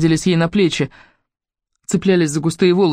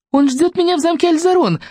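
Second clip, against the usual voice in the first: joyful reply, much higher; 12 semitones higher than usual. Acted. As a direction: call back, lit up with joy. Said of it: "радостно откликнулась Мелисенда".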